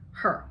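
"her" kept short with a curled R; very short schwa. Shown as a demonstration. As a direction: cut her short, straight onto the R. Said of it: "very short".

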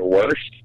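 "washed" said the Washington way, with an intrusive R; "washed" in dialect, rhyming with "portioned" minus its ending; regional pronunciation. Retold or imitated. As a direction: say "washed" as "warshed". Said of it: "That's how they say washed in Washington".

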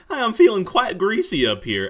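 pompous guide. Acted. Guide telling the player what comes next, pompous and high. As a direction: lord it over the player as the smug guide.

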